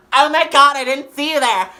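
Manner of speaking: loud, high-pitched mock shock; mock surprise. Pretending to just notice the viewer, loudly surprised. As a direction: shriek it as if caught off guard.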